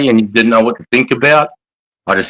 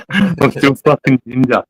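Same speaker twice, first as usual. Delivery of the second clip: higher, slow and stretched out; comic slow, higher-pitched echo of the line; mock drawn-out repeat; 6 semitones higher than usual. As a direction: drag it out up high for a laugh.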